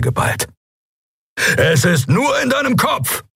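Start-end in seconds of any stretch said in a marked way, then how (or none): 1.6-3.2 high, urgent encouraging call. A narrator's reading. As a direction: shout encouragement to a friend. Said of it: "rief er".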